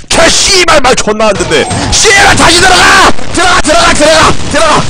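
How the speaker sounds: high-pitched real rage, cursing at full tilt; enraged screaming. Real, not acted. Gamer cursing teammates who will not listen, enraged screaming. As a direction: lose your temper completely, screaming high. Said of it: "제가 소리를 질러서".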